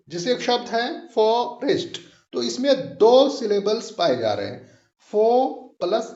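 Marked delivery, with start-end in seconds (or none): 5.1-5.3 फो drawn out as the stressed syllable; फो held long, set apart by pauses. Shown as a demonstration. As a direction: stretch the vowel of फो. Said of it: "उसको हम थोड़ा खींच के पढ़ रहे हैं".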